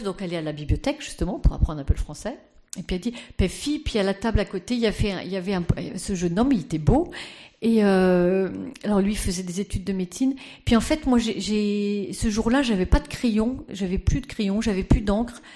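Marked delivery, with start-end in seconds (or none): 3.4-7.1 put-on Danish accent. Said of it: "je prends l'accent de Madame Lejeune". 10.6-15.4 put-on Danish accent. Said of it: "je prends l'accent de Madame Lejeune".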